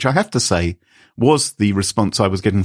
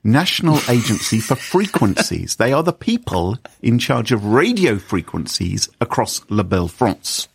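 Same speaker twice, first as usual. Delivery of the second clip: fake French accent. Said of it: "this fake French the whole way through".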